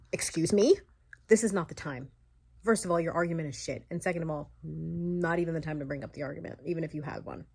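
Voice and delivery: loud, indignant tirade; loud indignant ranting; furious rant. Real, not acted. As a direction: tear into him, outraged. Ranting at the father.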